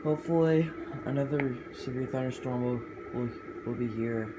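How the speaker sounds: tripping over the sentence, repeating will; flustered false start with stammered will; stumbling over words. Real, not acted. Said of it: "Now, what am I saying?".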